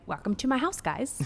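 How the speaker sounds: lightly imitated show-off house tour; a hint of a TV host's welcome; MTV Cribs host. Parent mimicking a child coming through the front door, mock MTV Cribs host. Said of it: "Like M T V Cribs or something".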